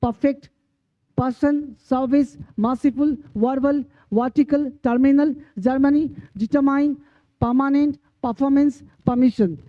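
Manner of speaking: word-list demo of longer words, "a" vowel as in सर्विस. Shown as a demonstration. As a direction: say परफेक्ट as "pa-fect", with an "ah" in the first syllable. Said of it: "long syllable वाली शब्द".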